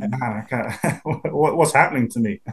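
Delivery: laughing self-mock. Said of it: "I think".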